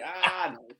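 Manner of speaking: a pained no, that's not good; mock dismayed coach. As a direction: play a coach wincing at a bad rep. Coach disappointed at rep.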